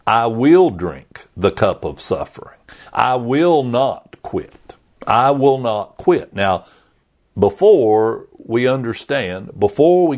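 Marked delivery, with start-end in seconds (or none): 0.1-6.3 firm, measured vow with mild weight; resolute. Acted. Preacher voicing Jesus facing the cup of suffering, resolute. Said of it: "the resolve in Jesus' mind".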